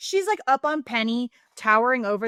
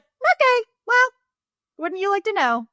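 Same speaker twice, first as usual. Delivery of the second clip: high, loud sassy comeback; smug retort; 11 semitones higher, 6 dB louder than usual. Retold or imitated. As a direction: tease them, full of sass. Smug retort voiced for Felicity.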